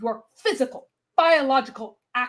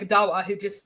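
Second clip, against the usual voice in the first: ordinary delivery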